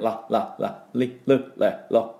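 ラ、リ、ル、レ、ロ as light English L sounds; short, separate, light L on ラ、リ、ル、レ、ロ; 軽めのラ行. Shown as a demonstration. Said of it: "軽めのね、". (ラ、リ、ル、レ、ロ を軽いLの音で)

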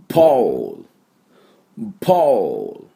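ポール stretched slowly, ending on a clean L; ポール said as a native model for students; model for repeating. Shown as a demonstration. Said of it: "私の後にして発音しましょう". (復唱用にポールをゆっくり)

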